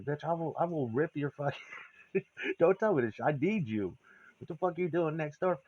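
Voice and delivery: mock furious threat. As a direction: snap at her half-laughing. Yelling at imagined Sue.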